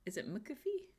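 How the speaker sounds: McAfee tried as muh-kuh-FEE, questioning; trying another pronunciation. Real, not acted. Streamer tests another way of saying McAfee, unsure pronunciation. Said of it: "How do you say it?".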